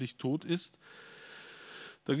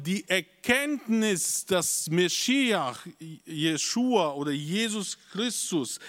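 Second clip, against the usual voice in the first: raised, slow, emphatic pulpit voice; preaching at full force; 6 semitones higher than usual. Acted. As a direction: drive the key truth home to the congregation. Climax of the sermon summary. (predigt mit voller Kraft, langsam und eindringlich)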